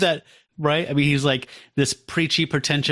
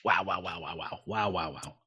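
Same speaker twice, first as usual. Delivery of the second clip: winded by whiskey; 6 semitones lower, 11 dB quieter than usual. Real, not acted. After a burning whiskey shot.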